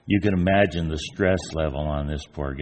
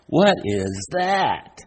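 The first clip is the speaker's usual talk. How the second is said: amazed gasp of wonder; 8 semitones higher, 4 dB louder, much slower than usual. Retold or imitated. Blind man sees a camel.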